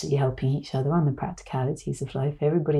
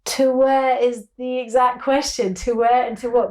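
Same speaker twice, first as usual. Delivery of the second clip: "where" punched higher and louder; stress on WHERE; 8 semitones higher, 5 dB louder than usual. Real, not acted. Echoes question emphatically.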